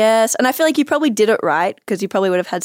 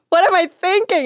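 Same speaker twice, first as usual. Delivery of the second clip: mock self-doubt; 10 semitones higher than usual. Voicing friend's regret, high.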